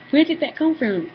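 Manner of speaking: mock frightened bewilderment; retold alarm. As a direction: imitate a sister jolted awake. Sister startled by night yell.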